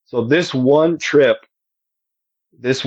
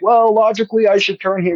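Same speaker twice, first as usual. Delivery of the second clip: raised, prim reasoning voice; mock logical musing; 8 semitones higher than usual. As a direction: play the calm reasoner, mockingly. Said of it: "I wasn't like".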